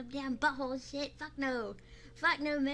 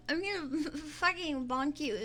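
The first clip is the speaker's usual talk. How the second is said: ordinary delivery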